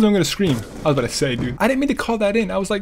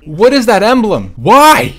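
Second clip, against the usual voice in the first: surprised; 3 semitones higher, 8 dB louder, slower than usual. Real, not acted. Shocked by an emblem.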